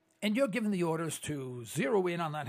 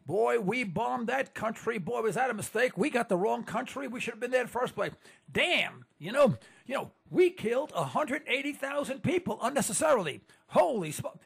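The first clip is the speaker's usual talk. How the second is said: mock dismayed admission, a bit louder and higher; imagined confession; 6 semitones higher, 4 dB louder than usual. Host imagining America admitting a bombing mistake, mock dismay. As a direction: exclaim it as a shocked nation owning up. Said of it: "We have never gotten up and said".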